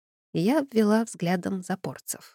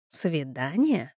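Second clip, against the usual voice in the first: gurgling; 3 semitones lower, 5 dB quieter, much slower than usual. Acted. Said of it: "многозначительно пробулькал водяной".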